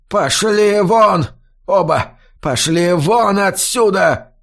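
roaring, dragged-out yell; old man yelling at the boys to get out; furious shout. A narrator's reading. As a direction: throw them out with a roar. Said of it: "заорал Раск".

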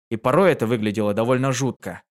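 usual speaking voice

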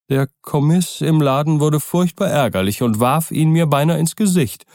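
put-on aggrieved old servant. A narrator's reading. Poole, servant's voice.

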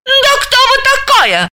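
high, slow scornful shout; презрительно; contemptuous cry. A narrator's reading. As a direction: spit out contempt at her. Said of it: "презрительно выкрикнула Заматаева".

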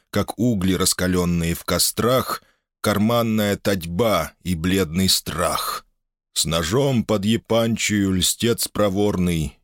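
slow, chanted solemn recitation; recitative. A narrator's reading. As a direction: intone the verses like a chant. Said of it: "подхватил речитативом".

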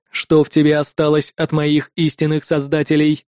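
low, measured voice, stress on ты; calm android rebuke. Acted. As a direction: turn his words back on him coolly.

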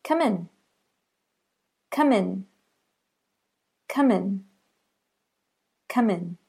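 "Come in" with the m carried into "in", kʰʌmɪn; linked demo. Shown as a demonstration. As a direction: say "Come in" as one word. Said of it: "That should sound like this".

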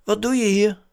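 hoge, luide vraag; Lunar. A narrator's reading. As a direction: vraag het als verwonderd maanautootje. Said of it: "vroeg Lunar". (hoog autostemmetje)

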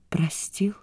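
whispered, rising question; disbelieving whisper. Acted. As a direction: whisper it, unbelieving. (шёпотом, не веря)

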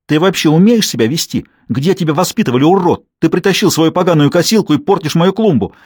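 wife berating the neighbour over her wrecked flowerbed, yelling; angry yelling. A narrator's reading. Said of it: "орала Анника".

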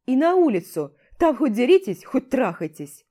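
loud, gruff orders; commander yelling. Acted. Commander sends both to the medic and threatens dismissal, loud orders. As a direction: bark out the punishment, fed up.

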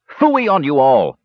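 slow, high-pitched indignant outburst; kender's shout. A narrator's reading. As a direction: brush them all off with a drawn-out cry. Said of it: "shouted the kender".

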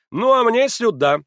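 намного выше и громче; весело отмахнись; бодро. A narrator's reading. Маслобоев прощается. (Маслобоев показывает налево, громко и высоко)

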